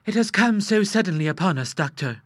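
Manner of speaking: sobbing. Acted. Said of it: "sobbed Missus Hay Denver".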